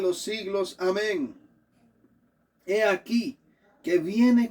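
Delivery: emphatic pulpit Bible reading; scripture reading. Acted. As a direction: proclaim it with weight, phrase by phrase. Reads Revelation aloud to congregation.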